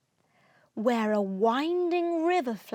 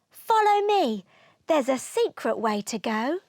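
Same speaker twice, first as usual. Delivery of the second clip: put-on boy's eager call; 4 dB louder than usual. Boy leads dragon to secret path.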